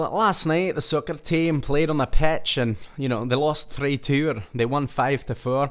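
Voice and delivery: poor put-on Scottish accent. Announcing the school soccer scores, imitating a Scottish soccer coach with an awful Scottish accent. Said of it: "Awful accent".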